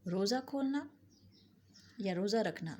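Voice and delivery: ordinary talk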